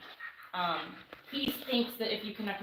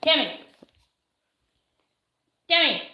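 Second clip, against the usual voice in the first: calling out; 4 semitones higher, 9 dB louder than usual. Real, not acted. Calling to her through headphones.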